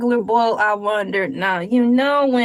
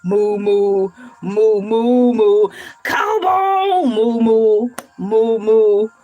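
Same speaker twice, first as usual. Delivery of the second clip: louder, lower mock moos; joking cow moos; playful mooing; 3 semitones lower, 4 dB louder, slower than usual. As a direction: moo like a goofy cow.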